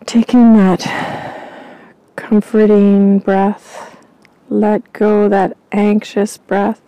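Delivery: slow, drawn-out breathing guidance; guided breathing. Acted. Psychic guides listeners through calming breaths, slow guided-meditation voice. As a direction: ease them into calm breaths, slowly.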